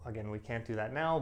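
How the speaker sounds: usual speaking voice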